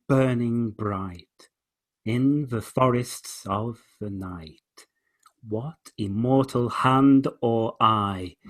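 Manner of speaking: slow, measured recital of the verse; poem reading. Shown as a demonstration. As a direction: read it aloud, savoring each line. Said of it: "here we go".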